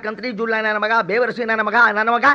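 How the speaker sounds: angry cursing. Acted. Entering, cursing the in-law.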